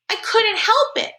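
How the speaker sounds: put-on high, slow little-kid whine; whining. A narrator's reading. Little Jamie excuses himself to mom, whining. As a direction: whine it in a small boy's voice. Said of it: "kind of whining".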